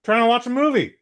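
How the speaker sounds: loud, high British scolding; put-on British accent. Hooded moviegoer scolding a phone user, loud mock-British. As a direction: yell across the room like a Brit. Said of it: "speak with a British accent".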